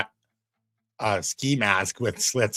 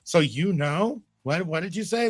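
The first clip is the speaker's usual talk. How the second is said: much higher teasing voice; mock shrill; 9 semitones higher, 4 dB louder than usual. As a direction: squeak it out to tease him. Mocking guest over low audio.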